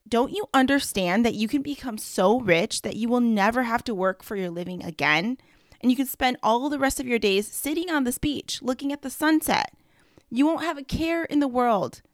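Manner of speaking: mild mock shout. Businessman shouting at the fisherman, mild mock anger. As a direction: lean into the rage but keep it understated. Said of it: "red with rage and shouted".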